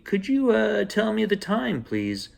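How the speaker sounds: put-on old lady late for market asking the time, high voice. A narrator's reading.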